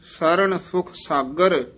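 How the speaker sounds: ਸਰਣ ਸੁਖ ਸਾਗਰ ending in a fall; phrase set apart, stop after ਸਾਗਰ; pause after phrase. Shown as a demonstration. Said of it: "ਇੱਥੇ ਵਿਸਰਾਮ ਹੈ".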